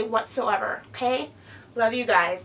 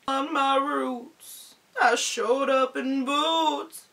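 a singer impression; slower than usual. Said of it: "Garth Brooks, I love you".

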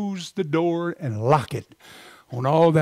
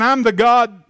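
voice of God; 4 semitones higher, 4 dB louder than usual. Retold or imitated. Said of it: "Maybe he was saying".

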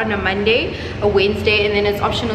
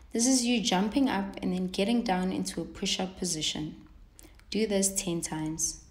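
voiceover read; 11 dB quieter than usual. Acted. Recorded voiceover instructions.

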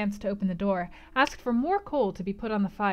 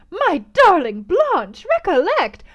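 high, slow alarmed plea; pleading mother; 9 semitones higher, 12 dB louder, slower than usual. A narrator's reading. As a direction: beg her daughter to think.

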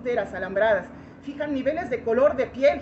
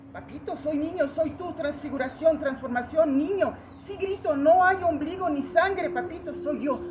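higher-pitched plea within a poem; raised, insistent recited appeal; pleading to papito; 5 semitones higher than usual. Acted. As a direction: plead upward to a father as his child. Child pleading with father in poem.

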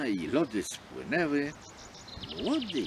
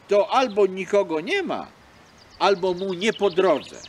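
louder, higher scolding from the shore; reproachful fox calling out; 5 semitones higher, 7 dB louder than usual. Acted. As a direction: throw her words back at her.

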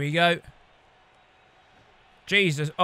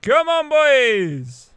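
slow, higher, louder cheer; 7 semitones higher, 8 dB louder, much slower than usual. Real, not acted. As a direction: urge the team on, stretching it out. Cheering his team on.

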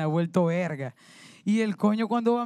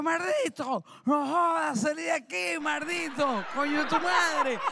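mock angry drunk shout, higher; drunk yelling at dog; 3 semitones higher, slower than usual. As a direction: chase the dog off, slurring curses.

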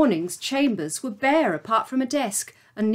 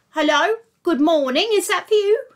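receptionist voice; 8 semitones higher, 4 dB louder than usual. Acted. Receptionist confused.

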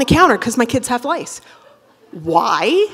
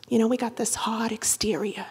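whispered aside; 10 dB quieter than usual. Acted. Confiding M and M's comparison.

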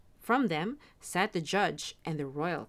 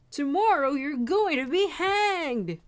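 loud, raised-pitch cry; loud announcement; 7 semitones higher, 6 dB louder than usual. A narrator's reading. Townsfolk telling the jailed soldier his fate, loudly calling out. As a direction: call it out like a jeering crowd. Crowd taunting the condemned soldier.

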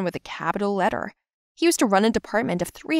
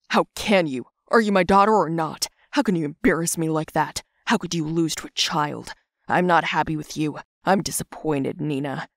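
stern fatherly reproach, sinking lower; scold, then settle into low disappointment; 3 semitones lower than usual. Acted. Father scolding daughter in her nightmare, stern and disappointed. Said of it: "my father coming to me and scolding me".

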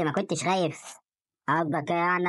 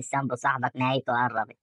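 low, lightly voiced ominous caller; hint of a haunting voice, pitched down; eerie calling voice; 6 semitones lower than usual. Telling a friend about strange voices, low and lightly eerie. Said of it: "والاقي صوت بيندى عليا وبيقول لي".

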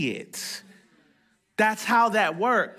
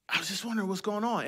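gentle question; 6 dB quieter, much faster than usual. Retold or imitated. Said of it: "I said".

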